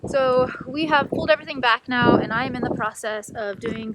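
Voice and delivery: muffled behind a mask; talking through a dust mask; through a face mask. Real, not acted. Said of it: "hear me through the mask and the wind".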